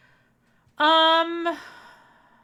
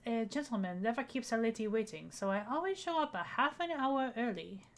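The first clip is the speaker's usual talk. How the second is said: bad French accent; 4 dB quieter than usual. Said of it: "my bad French accent".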